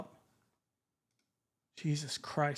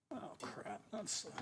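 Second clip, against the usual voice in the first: muttered under breath; 6 semitones higher, 14 dB quieter, slower than usual. Real, not acted. Muttered slip.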